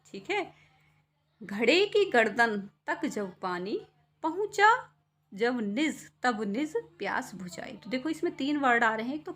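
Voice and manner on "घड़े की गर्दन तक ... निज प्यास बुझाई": slow recital, rising on पहुँचा; poem recitation. Acted. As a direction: read the verse slowly with lift. Poem lines. (धीमे कविता पाठ)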